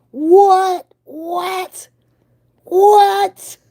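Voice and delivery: high, loud stunned squeal; shocked what. Real, not acted. Vlogger stunned by the monthly note, squealing. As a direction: squeal it in disbelief. Reacting to payment price.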